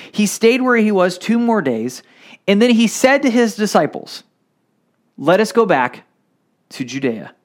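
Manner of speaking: measured reading of the Gospel to the congregation; scripture reading. Acted. Pastor reading John eleven to the church, measured. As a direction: read it out like a lesson from the pulpit. Preacher reads verse three onward.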